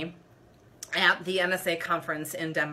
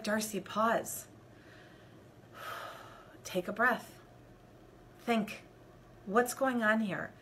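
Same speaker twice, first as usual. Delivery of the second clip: softer, slow, near whisper to herself; calming self-talk; 9 dB quieter than usual. Retold or imitated. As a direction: talk yourself down gently. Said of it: "I was like".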